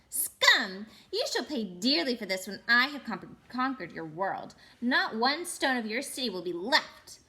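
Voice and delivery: loud, clear and ringing like a bell; ringing witch threat. Acted. Witch threatening the jeering crowd, loud and ringing. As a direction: proclaim it like a gloating queen. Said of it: "clear like a great bell".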